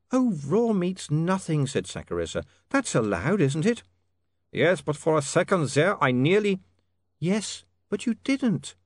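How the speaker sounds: high, slow, firm comfort; reassuring young lady. A narrator's reading. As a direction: reassure him kindly. Sacharissa reassures.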